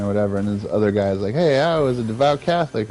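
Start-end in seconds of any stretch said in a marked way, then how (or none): 1.3-2.9 higher-pitched imitation of an objecting soul; mock protest. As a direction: chime in with your own puzzled objection. Another damned soul protests.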